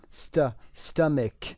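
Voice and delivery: "ست، stomach": first syllable alone, then the whole word; syllable demo, short uh in "ست" and "stomach"; short uh vowel. Shown as a demonstration. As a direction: break off stuh, then say "stomach" with a k. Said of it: "صدای آ کوتاه هست".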